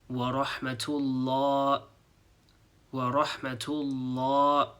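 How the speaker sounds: rahmatullah with the H dropped; without the H. Shown as a demonstration. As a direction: say rahmatullah with no H, the wrong way. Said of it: "if I was to not pronounce the H sound".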